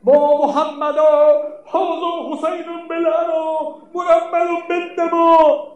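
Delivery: high mournful cry, drawn out at first; retold cry of grief. Zainab calling over the fallen Husayn, a high wailing cry. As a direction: cry out to the Prophet in lament. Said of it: "فریاد زد".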